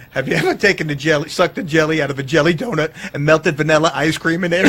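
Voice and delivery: giggling through the line; laughing through quote. Retold or imitated. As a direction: quote the guy while cracking up. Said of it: "The one guy's talking about".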